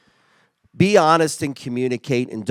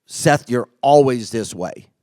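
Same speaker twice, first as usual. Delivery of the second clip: mock accusation; 6 dB louder, slower than usual. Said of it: "it sets you off".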